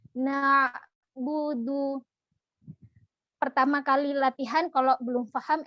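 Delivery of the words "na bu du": bu rounded then du from a smile; correct bu du. Shown as a demonstration. Teacher drilling the sequence. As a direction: reset the lips before du. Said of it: "baru ucapkan du".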